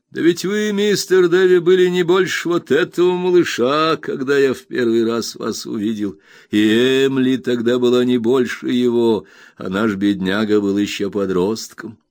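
a hint of a marvelling old friend, starting high and loud, then settling; lightly voiced hearty old man. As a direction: reminisce with lively fondness. Old Peggotty recalls their childhood.

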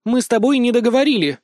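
loud, high, angry accusation; spiteful loud reproach. Acted. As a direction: hurl it at him in spite. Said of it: "и злобно посмотрела на меня".

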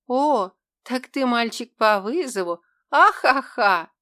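loud, high mocking laughter; laughing mockery. A narrator's reading. Girl laughs at the demon's boast, loud and high. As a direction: burst out laughing at him.

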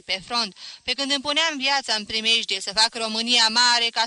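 loud, wounded lecture; offended professor declaiming; indignant professor. A narrator's reading. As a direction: defend your life's work loudly. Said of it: "își potrivi ochelarii pe nas și îi spuse".

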